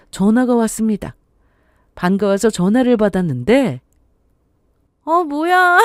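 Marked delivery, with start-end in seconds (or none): 5.0-5.8 high, delighted surprise; pleasant surprise. Acted. Daughter picking up mom's well-timed call, pleasantly surprised. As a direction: exclaim it high, happily caught off guard.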